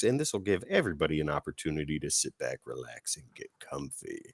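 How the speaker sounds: soft relaxing voice. Acted.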